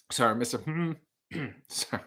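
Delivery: lightly acted waiter, strained politeness; nervous laughs and throat-clearing, trying to keep order. Waiter pleading with a rowdy guest, awkwardly polite. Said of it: "That was my impression of the waiter".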